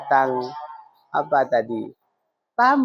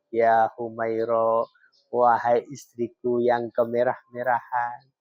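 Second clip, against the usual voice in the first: gentle, tender address. Retold or imitated. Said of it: "intonasinya lemah lembut".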